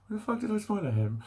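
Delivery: high-pitched mock women's thought; women's baffled reaction. Women catching themselves smiling at him, baffled.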